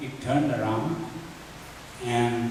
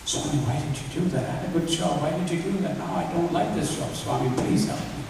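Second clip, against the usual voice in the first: imitated complaint in prayer, pitched up; pleading prayer; 3 semitones higher than usual. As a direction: retell a plaintive, questioning prayer. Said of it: "I was praying like that".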